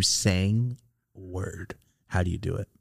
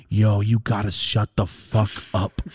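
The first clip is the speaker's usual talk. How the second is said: deadpan reply; slower than usual. Retold or imitated. Telling a chatty friend to stop, slow and deadpan. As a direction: say it flat and unbothered. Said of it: "And I go".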